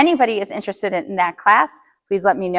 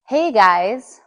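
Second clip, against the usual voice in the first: calm and low; slower than usual. Shown as a demonstration. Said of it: "You see how you just brought it down".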